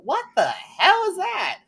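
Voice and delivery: high, slow, laughing "what the hell"; laughing disbelief. Real, not acted. Laughing incredulous outburst.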